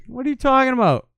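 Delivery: high, loud indignant shout; mock outraged yell. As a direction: blurt it out, hammed-up outrage. Mocking WWE bosses, sudden yell.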